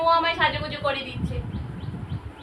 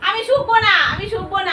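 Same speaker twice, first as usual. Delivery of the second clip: louder mock protest on শুকবো; playful refusal; 2 semitones higher, 4 dB louder than usual. Real, not acted. Refusing fishy breath.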